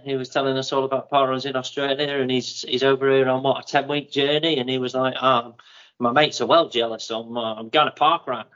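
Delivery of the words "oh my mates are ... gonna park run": loosely imitated Australian bloke; attempted Aussie accent. Retelling what the Australian runner said, attempted Aussie accent. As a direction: put on a light Aussie accent. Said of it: "he's doing the accent again".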